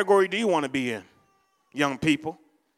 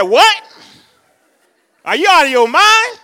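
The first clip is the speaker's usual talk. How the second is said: high, loud disbelief; hammed-up shocked protest, rising sharply; incredulous outburst; 7 semitones higher, 9 dB louder than usual. Hanging man told to let go, loudly incredulous. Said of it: "The man said".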